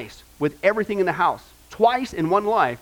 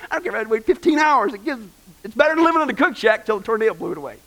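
mock grandma retort; 4 semitones higher, faster than usual. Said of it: "You said".

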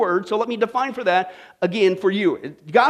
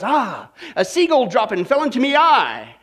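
lightly voiced pirate confession; joke pirate. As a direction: play the pirate lightly for laughs. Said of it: "And the pirate goes".

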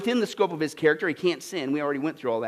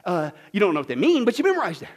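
mock know-it-all; 2 semitones lower than usual. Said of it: "No, no, no, I know what it is".

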